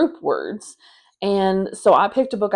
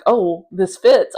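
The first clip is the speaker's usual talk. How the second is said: excited; 5 dB louder, slower than usual. Retold or imitated. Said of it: "I'm very excited".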